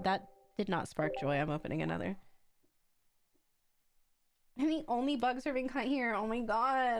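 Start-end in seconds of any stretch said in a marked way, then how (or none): 4.6-7.0 laughing. Real, not acted. Rereading the line while laughing.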